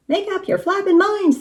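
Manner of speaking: high, exasperated yell; yelling rooster. A narrator's reading. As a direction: yell at the bickering pilots. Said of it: "the rooster yelled".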